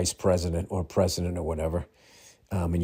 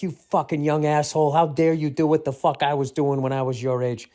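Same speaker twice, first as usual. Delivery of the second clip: higher, half-joking indignant rant; mock scolding; 5 semitones higher than usual. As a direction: play the outraged old man. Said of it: "It's like".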